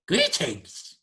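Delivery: high, loud creature voice calling out; shouting creature. Acted. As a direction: shout it across a big room, high-pitched. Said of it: "shouting across this room".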